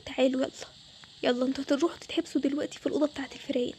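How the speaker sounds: low-pitched, threatening order; stern mother. Acted. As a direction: order the children off to punishment. Mother orders children to be locked up.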